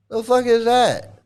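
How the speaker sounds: high, slow disbelief; incredulous. Real, not acted. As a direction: stretch it out in disbelief. Incredulous outburst.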